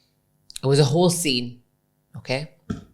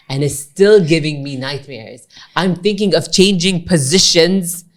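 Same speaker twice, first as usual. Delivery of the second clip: mock-aggrieved, rising louder and higher; retold exasperation; 3 semitones higher, 5 dB louder than usual. Baker friend complains about the cake, retold exasperation. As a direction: build the imitated complaint with heavy emphasis.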